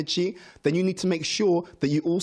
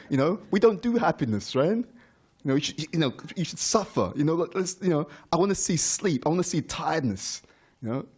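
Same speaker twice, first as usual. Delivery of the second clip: mock puzzled devotee; 3 semitones higher than usual. Devotees quizzing a happy friend, lightly mocking bafflement. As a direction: tease the gloomy devotee who can't fathom happiness. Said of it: "People will start to notice".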